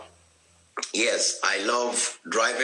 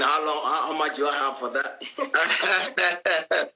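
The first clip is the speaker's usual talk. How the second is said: slow, amused ask through a laugh; laughing question; 4 semitones higher, slower than usual. Real, not acted. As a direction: chuckle while asking how long. Asks about time, laughing.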